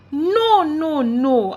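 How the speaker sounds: high loud panicked scream. A narrator's reading. Boy screaming in panic after hearing the truth. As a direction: cry out in panic. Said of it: "I screamed".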